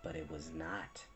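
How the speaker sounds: very low, hushed narration; soft, low, foreboding; ominous aside. A narrator's reading. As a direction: drop right down to undercut it. Narrator undercuts the reassurance.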